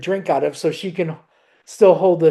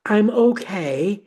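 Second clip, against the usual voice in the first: higher, slower mom reassuring; imitating mom; 4 semitones higher, slower than usual. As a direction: lift the voice and slow down to play mom. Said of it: "She's like".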